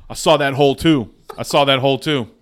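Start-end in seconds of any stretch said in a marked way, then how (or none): 0.1-1.1 louder, punched proud brag; bragging at full volume; proud call. Shown as a demonstration. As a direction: shout it like a proud player. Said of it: "repeats line louder".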